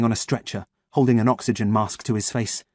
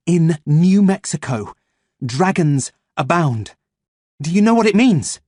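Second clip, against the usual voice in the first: slow urgent quote; 6 semitones higher, 5 dB louder than usual. Acted. Urging dazed man with message.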